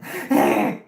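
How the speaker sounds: loud, low mock laugh; short burst mimicking a creepy smiler; imitated grin noise. Mimics her smile noise after retelling.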